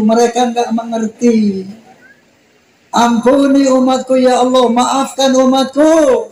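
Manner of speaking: high, tender pleading for his people; the Prophet praying for those who stoned him, tender; pleading prayer. Retold or imitated. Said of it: "Apa kata Nabi".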